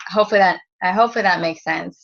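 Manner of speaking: stumbling over the words; stuttering. Real, not acted. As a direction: stutter and restart. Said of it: "Sorry, I'm stuttering".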